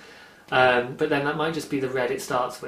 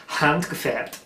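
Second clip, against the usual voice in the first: handgefärbt said in German; fancy German; slower than usual. Shown as a demonstration. Showing off reading the German label. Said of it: "Look at me getting fancy now".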